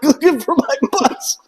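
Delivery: high, sheepish reply; meek recruit. Retold or imitated. Recruit answering the instructor, high and sheepish. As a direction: answer like a lost kid. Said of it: "And I was like".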